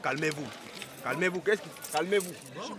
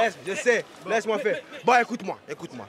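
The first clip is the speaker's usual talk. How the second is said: higher, louder furious threats; angry shouting; 4 semitones higher, 5 dB louder than usual. Acted. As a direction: shout him down. Escalating quarrel with officer.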